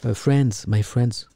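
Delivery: English with a French accent, lightly mimicking a president. President wooing foreign investors, French-accented English. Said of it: "avec mon accent".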